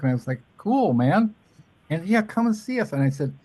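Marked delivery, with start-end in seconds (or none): 0.6-2.9 high voiced quote.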